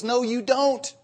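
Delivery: high, insistent tearful denial; upset wife. Retold or imitated. Wife contradicting husband who claims to understand, high and insistent. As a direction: shut him down, hurt and certain.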